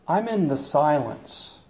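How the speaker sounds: softly, with gentle authority; quiet voice of God. Acted. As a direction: speak it as a still small voice. God answering Elijah.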